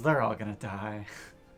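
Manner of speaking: mumbled words, half to oneself, under the breath. Voicing a character in the game, she mutters the line. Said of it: "she mutters".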